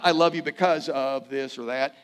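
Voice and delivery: I love you because of this or that, with I lifted and the line rising; grudging, strings-attached I love you; the wrong kind of love, said with a rise; conditional love. Shown as a demonstration. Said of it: "it's not".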